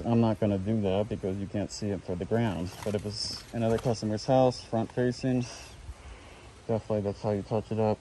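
muffled behind a respirator mask; through a respirator. Real, not acted. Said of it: "It's hard to talk with this respirator on".

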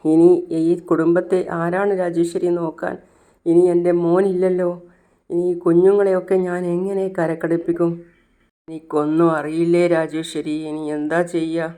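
a grieving mother crying out her worries; loud tearful lament. Acted. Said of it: "വിലപിച്ച് കരയാണ്".

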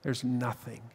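hushed, breaking whisper of a grieving king; sorrowful whisper. Acted. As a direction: whisper it like a last goodbye at the pit. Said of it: "he said one last time".

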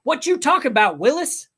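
high, loud piercing shriek; a kid's piercing, abrasive high yell; piercing siren voice. A narrator's reading. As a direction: screech it like a siren. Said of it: "as piercing and abrasive as a siren".

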